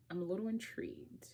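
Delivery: soft, breathy whisper. Real, not acted. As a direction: whisper it like a secret. Whispered aside about the book.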